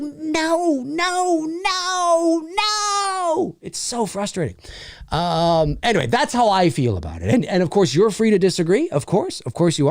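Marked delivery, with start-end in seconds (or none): 0.0-3.6 each no climbs higher, frustrated; stacking up higher and higher refusals; escalating no. Real, not acted. Fed up with woke complaints, rising exasperated no.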